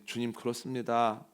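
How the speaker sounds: lightly voiced troubled disciple, low and soft; subdued, mildly anxious assent; worried reply. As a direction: answer softly with a touch of worry. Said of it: "근심하는 가운데".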